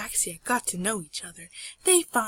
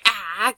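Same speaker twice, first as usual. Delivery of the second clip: short, louder mock cry of fright; mock scream; 8 dB louder than usual. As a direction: give a brief pretend scream. Both characters scream.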